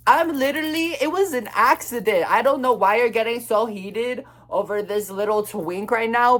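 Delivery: high-pitched mock outrage at the dude, pitch climbing; retold raging rant. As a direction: replay the street rant, indignant and squeaky. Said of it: "raging down the street".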